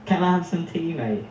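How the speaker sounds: natural British demonstration; British accent. Shown as a demonstration. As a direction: model the British accent for a learner. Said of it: "how to say something in a British accent".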